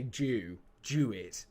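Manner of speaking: "do" turned into "Jew"; imitated pronunciation. Imitating Seabird's way of saying do, "Jew it" with a j. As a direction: start "do" with a j sound, "Jew it". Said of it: "I like the way you say do".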